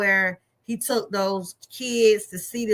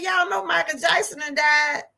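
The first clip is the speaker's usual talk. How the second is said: higher, shocked telling; caller breaking news; 6 semitones higher than usual. Retold or imitated. Caller telling teller a famous singer died, shocked. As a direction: hit them with the news, stunned. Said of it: "Somebody called and said".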